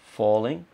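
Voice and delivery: falling sung with a clear falling tune. Shown as a demonstration. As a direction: let the voice drop on falling. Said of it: "So we've got".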